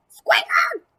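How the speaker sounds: high, loud call across the yard. Acted. Lucy calling for her missing pet, loud high call. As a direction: shout the pet's name to find him.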